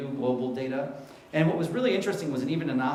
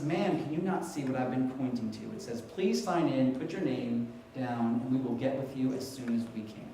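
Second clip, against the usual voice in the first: mild mock impatience; 3 semitones lower, 4 dB quieter than usual. Retold receptionist scolding the patient.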